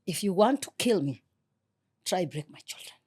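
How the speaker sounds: trying not to cry, real; holding back tears. Real, not acted. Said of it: "I need tissue, balancing tears".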